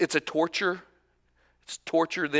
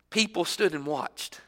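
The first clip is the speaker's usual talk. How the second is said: softer, letting it sink in; quiet reflective repeat; 8 dB quieter than usual. Shown as a demonstration. Preacher echoing the verse to the congregation, hushed. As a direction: say it back softly to yourself. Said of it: "easy one just to gloss right over".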